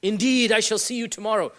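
mock-formal, with INDEED hit hard; overdone emphasis on "Indeed", then carry on formally; old-fashioned emphatic. Shown as a demonstration. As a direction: punch "Indeed" as if speaking archaic English. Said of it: "Somebody speaks like this".

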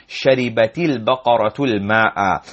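"شربت البقرة الماء" flowing as sharibati-l-baqaratu-l-ma'a; no break before either "al-" in "شربت البقرة الماء"; words joined. Shown as a demonstration. Teacher drills the joined sentence, "شربت البقرة الماء" linked. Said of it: "joining there".

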